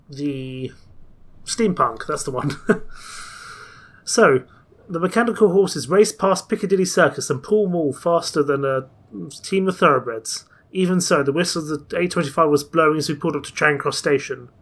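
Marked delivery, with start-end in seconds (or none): 4.9-14.5 lively storybook reading, rising and falling; narrating an adventure story; story narration. A narrator's reading. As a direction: read the tale aloud as Passepartout. Reads the game's story aloud.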